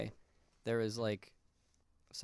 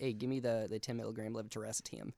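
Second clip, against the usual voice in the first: mock Jersey pharmacy order; New York-New Jersey accent. Shown as a demonstration. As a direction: demand it like a New Yorker. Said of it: "a New York, New Jersey accent".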